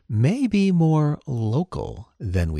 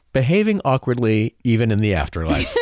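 laughing; 4 dB louder than usual. Real, not acted. Laughing joke.

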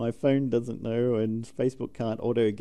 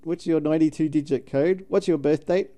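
higher, louder chirpy call centre voice; call centre agent; 5 semitones higher, 5 dB louder than usual. Retold or imitated. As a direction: play an overly bright operator. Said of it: "it's like".

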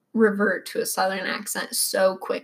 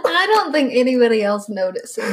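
laughing through the words; half-laughing protest; giggling defence to her husband; 3 semitones higher, 5 dB louder than usual. Real, not acted. Laughing while defending herself.

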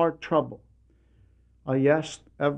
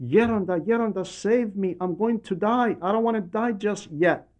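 retold desperate cry; 5 semitones higher than usual. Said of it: "he cried out".

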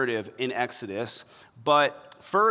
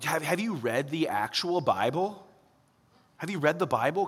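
pointed retort; 3 dB quieter than usual. Retold or imitated. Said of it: "To which I would respond".

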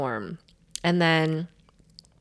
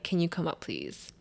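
calm; 10 dB quieter than usual. Retold or imitated. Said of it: "I'm very calm".

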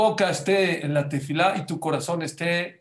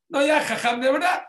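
put-on much higher, loud kid voice; mock child voice; 11 semitones higher, 5 dB louder than usual. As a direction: chirp it like an eager pupil.

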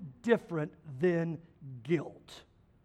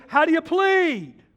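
raised, higher judge's demand; judge demanding plea; 7 semitones higher, 6 dB louder than usual. Retold or imitated. Judge pressing the preacher for his plea, louder. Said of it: "He goes".

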